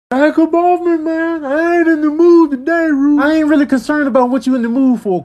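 high, loud squeaky squabbling; high squeaky critter voice. Acted. Two little critters arguing in a squeaky high voice.

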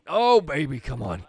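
loud, high cheer at the swing; sudden loud thrill; excited yell. Real, not acted. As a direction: whoop it up at the big hit. Big swing at the plate.

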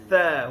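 tha with tongue tip at the teeth edge; touch tongue tip to tooth tips for tha. Shown as a demonstration. Teacher shows where it forms, dental lisped tha. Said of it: "hujung lidah".

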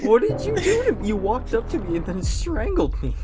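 loud high outrage; outraged shout. Real, not acted. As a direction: shout it in disbelief. Accusing after being strangled.

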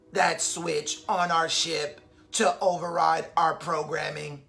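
low, even robot voice. Acted. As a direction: explain it like a calm robot. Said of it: "in his robot voice".

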